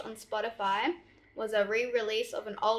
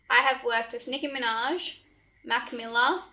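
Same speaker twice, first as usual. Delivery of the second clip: talking up; 5 dB louder than usual. Real, not acted. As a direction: read out a little louder. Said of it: "have to talk up a little bit".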